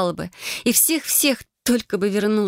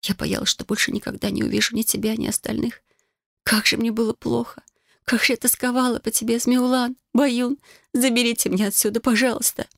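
tearful whisper; 6 semitones higher than usual. A narrator's reading. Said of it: "прошептала".

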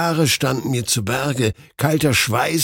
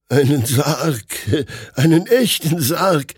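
louder, higher emphatic fear; frightened insistence; 5 semitones higher, 4 dB louder than usual. A narrator's reading. Doctor repeating to his friend that it was a real coffin. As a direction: insist on it, horrified.

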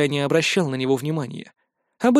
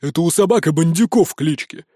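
mild growl. A narrator's reading. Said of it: "прорычал мужик".

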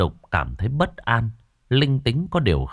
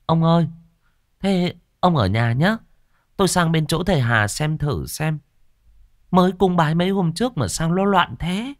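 giọng vợ; 8 semitones higher than usual. Acted. Vợ dặn chồng ở nhà.

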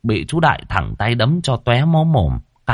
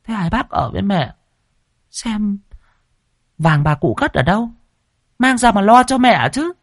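high, needling demand about the gold; sly, prying; 12 semitones higher than usual. Acted. Daughter-in-law pressing her sister-in-law about the gold, sly and pushy. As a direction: wheedle out where the gold is hidden. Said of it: "mắt giáo hoảnh quay sang bà Thoa".

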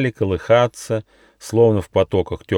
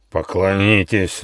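growling. A narrator's reading. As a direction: growl it like a beast. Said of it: "рычал Ехидна".

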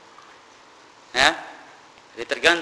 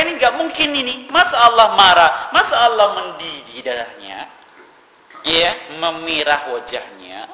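incredulous objectors; 7 dB louder than usual. Retold or imitated. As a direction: play the deniers scoffing, pitched up and loud. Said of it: "kata mereka". (meniru orang yang tidak percaya, nada tinggi dan keras)

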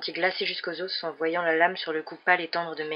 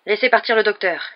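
firm, raised, steady command; calm but firm; 3 semitones higher, 9 dB louder than usual. A narrator's reading. Policeman to the armed attacker, firm and loud. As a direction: order it without wavering. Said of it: "d'une voix calme mais ferme".

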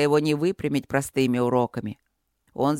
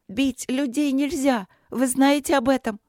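princess outraged, shouting at the dragon; ringing shout; 8 semitones higher, 3 dB louder than usual. A narrator's reading. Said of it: "крикнула она Чету так звонко".

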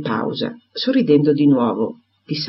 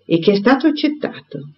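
firm, smiling; 9 semitones higher than usual. A narrator's reading. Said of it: "con fermezza sorridente, ma risoluta".

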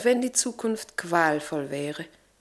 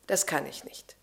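whispered refusal; 4 semitones lower, 6 dB quieter than usual. Acted. Lavinia refusing the captain's demand, whispered. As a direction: drop to a firm whisper. Quiet refusal after outburst.

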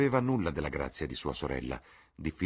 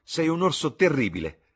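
much higher, louder delighted cry; playful exclamation; 11 semitones higher, 8 dB louder than usual. A narrator's reading. Sister hugging her gruff brother, delighted shout. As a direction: squeal it as you run to hug him.

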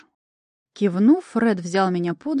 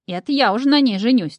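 higher and louder, stress on «на»; eager outbid; 6 semitones higher, 7 dB louder than usual. A narrator's reading. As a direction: jump in ahead of the rival. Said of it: "тут же подпрыгнул Макасий". (возбуждённо, с ударом на «на»)

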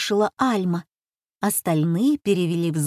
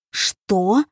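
cry out; 3 dB louder than usual. A narrator's reading. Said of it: "вскрикнул Авир".

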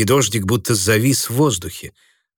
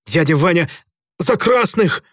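put-on hurt young voice, pitched up; offended; 8 semitones higher than usual. A narrator's reading. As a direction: protest with wounded pride. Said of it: "обиженно сказал".

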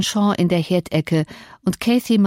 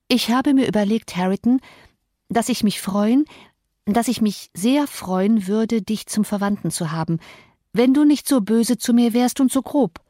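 Cathy's tentative appeal, a little higher; lightly voiced pleading girl; 3 semitones higher than usual. Cathy makes overtures to her cousin, lightly pleading. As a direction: lightly play a girl making a careful overture.

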